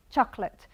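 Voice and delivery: chocolate said as two syllables, CHOC-lit; English chocolate. Shown as a demonstration. Teacher modelling chocolate for the class, CHOC-lit. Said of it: "in English, we say chocolate".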